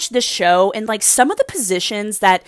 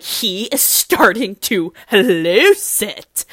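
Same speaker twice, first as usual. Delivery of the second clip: drawn-out realization; much slower than usual. Retold or imitated. Her reaction, drawn out slowly.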